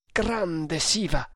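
slow, choked exclamation; a touch of stifled shock. Acted. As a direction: draw it out as if the throat tightens. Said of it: "esclamò con voce soffocata".

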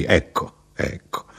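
second ecco dies into a whisper; fading to a whisper. Acted. The narrator answers the chatty traveller, fading to a whisper. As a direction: let the words drain away to breath.

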